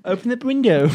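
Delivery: high, loud holler; calling out. Real, not acted. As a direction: shout the instruction across the room. Calling out, amid laughter.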